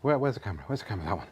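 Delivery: panting between words after rushing; out of breath. Real, not acted. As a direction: catch your breath as you talk. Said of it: "I am out of breath".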